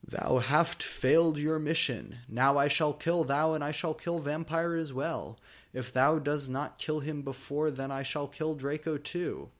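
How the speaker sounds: a hint of a raspy villain, loud and a little high; evil Darth Vader voice. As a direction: threaten like a hammy dark lord. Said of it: "Darth Vader said evilly in his raspy voice".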